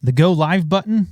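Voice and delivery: breathless after running upstairs; panting a little between words; out of breath. Real, not acted. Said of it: "Sorry if I'm out of breath".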